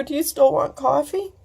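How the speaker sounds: a teary laugh at the joke; laughing while crying. Real, not acted. Joking with her friend through tears, laughing.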